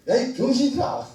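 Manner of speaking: mock scolding shout; acted call-out. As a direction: call out bluntly to a crowd. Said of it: "그래서 이분이 그랬대".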